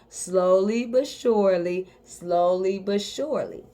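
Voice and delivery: drawn out, each word stretched low; slow and low. Shown as a demonstration. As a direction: ease it down slowly like a calming coach. Coach slows down on the phrase.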